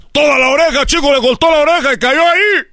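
high, exclaimed storytelling; horrified climax. Retold or imitated. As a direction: deliver the gory punchline in mock horror. (exclamación aguda de horror fingido)

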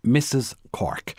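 strained composure; forced calm. A narrator's reading. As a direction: try to stay calm under accusation. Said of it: "said Bernice as calmly as she could".

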